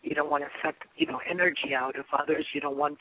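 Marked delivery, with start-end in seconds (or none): none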